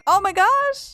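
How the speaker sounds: high-pitched thrilled outburst; excited. Real, not acted. Player finally getting a first dinosaur egg, excited. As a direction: exclaim it high with delight.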